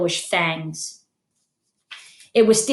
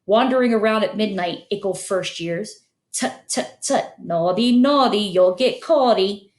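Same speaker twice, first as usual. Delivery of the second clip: teasing poltergeist. Acted. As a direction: tease them like a naughty sprite. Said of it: "Peeves cackled".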